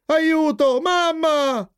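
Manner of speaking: put-on high-pitched child's call for mum; cry for help. Jeep calling mamma for help, high acted alarm.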